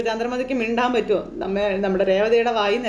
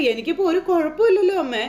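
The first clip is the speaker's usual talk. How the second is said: laughing; 6 semitones higher than usual. Retold or imitated. Son laughs off mother's worry.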